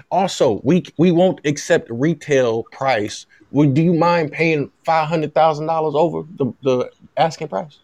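lightly put-on Louisiana Southern accent, measured negotiating; pretend Southern agent. Agent asks USC to cover his client's mortgages, in a light Southern voice. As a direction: play a slightly Southern agent making a polite demand. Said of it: "This is my Southern voice".

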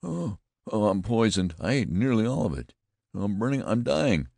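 high, loud mock agony; hammed-up dying groans; moaning. A narrator's reading. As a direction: moan as if poisoned. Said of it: "I continued to moan".

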